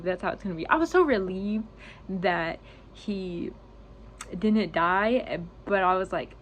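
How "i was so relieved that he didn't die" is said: relief breaking through the tears; tearful relief, forced out; crying. Real, not acted. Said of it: "I'm gonna cry on YouTube".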